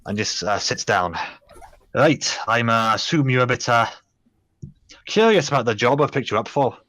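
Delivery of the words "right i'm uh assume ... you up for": put-on Scottish accent. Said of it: "my terrible Scottish accent".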